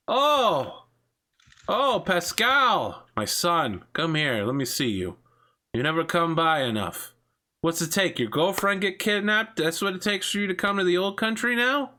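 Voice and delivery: father teasing Pascal for never visiting; gushing father. Acted. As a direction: smother his son with welcome. Father effusively greets his son.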